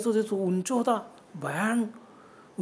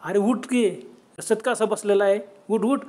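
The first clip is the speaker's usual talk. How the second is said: mock shout; 2 semitones higher, 5 dB louder than usual. Nanabhau shouts at the sitting stranger to get up. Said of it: "आरोळी मारले".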